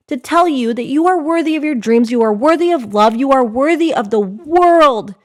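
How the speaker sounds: loud affirmations; strong encouragement. Real, not acted. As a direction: drive each affirmation home. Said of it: "I'll strongly encourage you".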